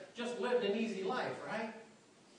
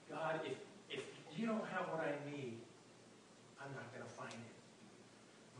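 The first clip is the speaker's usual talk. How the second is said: intimate prayer; 5 semitones lower, 10 dB quieter than usual. Retold or imitated. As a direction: pray it low and close, barely above a breath. Personal prayer spoken to God.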